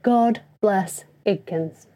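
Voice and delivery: slow, weighty benediction; slow solemn blessing. Shown as a demonstration. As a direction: give each word its own weight, slowly. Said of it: "That's what I say".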